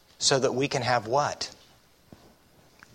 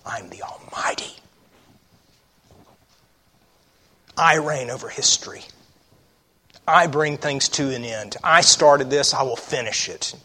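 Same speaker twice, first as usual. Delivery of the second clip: hushed solemn voicing. Preacher voicing God's claim.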